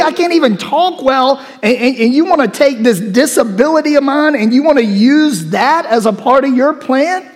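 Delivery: whining Moses. Acted. Moses protesting to God that he can't speak, whining. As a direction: complain like you're hopelessly unqualified.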